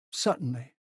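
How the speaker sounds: offended formality, held in; stiff. A narrator's reading. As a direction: concede it stiffly. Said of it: "McMaster said stiffly".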